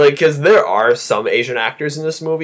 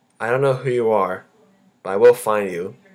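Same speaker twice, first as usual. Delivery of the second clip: dead flat, unchanging, one-note monotone; 3 semitones lower than usual. Complaining about a movie, doing Scarlett Johansson's character: flat monotone Scarlett Johansson impression. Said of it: "she speaks a monotone voice like this the entire time".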